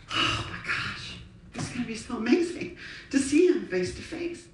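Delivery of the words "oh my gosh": drawn-out breathy gasp of awe; overwhelmed, slow exhale; awestruck. Real, not acted. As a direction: let the words out in an amazed breath. Imagines meeting the real Jesus.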